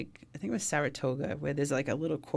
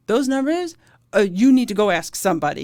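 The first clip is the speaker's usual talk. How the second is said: 1 incredulous retort; 5 semitones higher, 9 dB louder than usual. Retold or imitated. Medic snapping back at cop.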